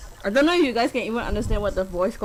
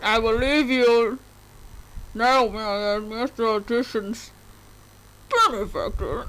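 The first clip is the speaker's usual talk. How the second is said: Bane voice. Acted. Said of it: "Is that how Bane sounds like?".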